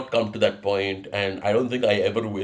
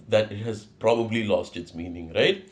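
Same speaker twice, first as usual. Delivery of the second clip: ordinary talk, nothing marked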